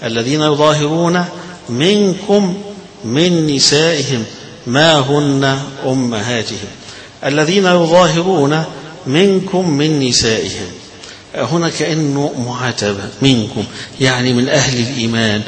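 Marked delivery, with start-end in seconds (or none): 0.0-10.7 slow chanted tartil; the teacher reciting the verse to the class; Quran recitation. Shown as a demonstration. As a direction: intone the verse slowly with a long منكم. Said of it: "هذه في هذه الكلمة".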